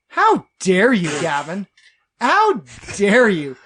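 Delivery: slow, mock-outraged dwarf; Gimli. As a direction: draw out the indignation, lightly in character. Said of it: "Read everything he says in Gimli's voice".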